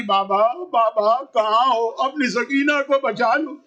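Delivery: put-on slow, pleading call of a lost little girl; child calling for father. Sakina calling for her father among the bodies, slow plea. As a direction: draw out the call as if searching. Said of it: "بابا کو پکارتی بھی چلی".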